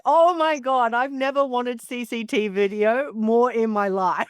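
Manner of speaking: squealing with delight at the idea of the footage; excited gush. Retold or imitated. Retelling to the host her thrill at Liz Hayes' outburst, excited high squeal.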